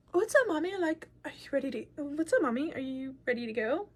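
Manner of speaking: easy, upbeat acted greeting; retold cheery greeting. Cheerfully greets mom in retold scene.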